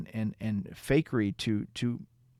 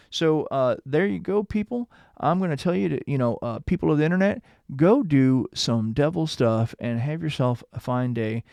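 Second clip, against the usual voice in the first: upbeat sign-off; 4 semitones higher, 6 dB louder than usual. Real, not acted. Cheerful sign-off to viewers.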